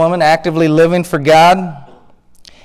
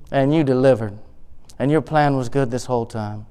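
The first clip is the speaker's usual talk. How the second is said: low, soft close of a prayer; hushed gratitude; 7 semitones lower, 8 dB quieter than usual. Acted. Hannah thanking God for delivering, hushed gratitude. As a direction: settle into quiet, sincere thanks.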